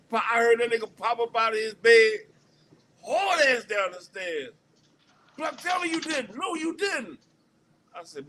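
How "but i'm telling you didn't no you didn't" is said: high-pitched, mocking imitation of an angry friend; mock the furious roommate in a high voice; mad friend. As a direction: squeak out his angry protest in a put-on high voice. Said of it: "He was mad as shit".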